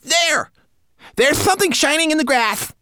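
very high, loud manikin cry; sudden exclamation. A narrator's reading. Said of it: "he exclaimed suddenly".

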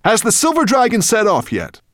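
high, loud dragon question. Acted.

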